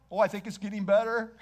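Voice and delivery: mock mild relief. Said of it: "It wasn't just somewhat calmer".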